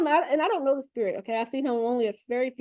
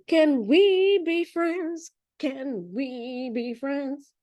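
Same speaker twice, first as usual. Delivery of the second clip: mock plea; 3 semitones higher, much slower than usual. Mock plea, very slow, far.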